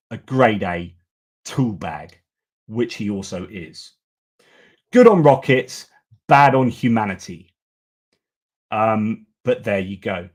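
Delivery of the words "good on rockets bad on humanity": emphatic punchline. Real, not acted. Punchline after Musk rant.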